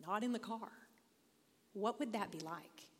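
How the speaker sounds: whispered, hushed wondering; hushed awe. Retold or imitated. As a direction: whisper picturing being out in the storm. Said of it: "and I think".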